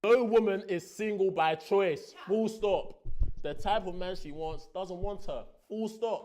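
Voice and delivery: loud, slow, declaiming the statement; loud dramatic reading. Retold or imitated. Man reading the question aloud to the women, loud and slow. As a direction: read it out like a proclamation. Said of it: "Disclaimer, this is not my view".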